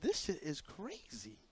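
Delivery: quiet retold anger at being lied to; muttered fury. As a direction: say it low to yourself, stunned. Retold private fury at boss.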